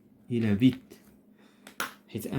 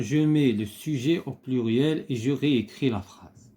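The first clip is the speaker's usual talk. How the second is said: instruction read aloud; much slower than usual. Shown as a demonstration. Teacher reads exercise instruction aloud.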